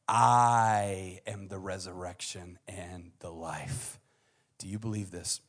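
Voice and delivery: slow, weighty declaration; solemn proclamation. Acted. Jesus declaring himself to Martha, slow and solemn. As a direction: announce it like a vow.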